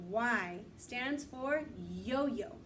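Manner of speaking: slow, drawn out; slow teaching. Shown as a demonstration. Teacher modelling the phrase slowly for the class. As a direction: stretch each word for the kids. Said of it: "Say it with me".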